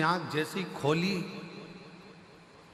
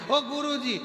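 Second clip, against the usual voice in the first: put-on higher, childlike sweet-talk; cheeky little grandson; 5 semitones higher than usual. Little grandson on the guru's lap turns the trick back on him, childlike coaxing. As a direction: coax the guru like a sly small boy.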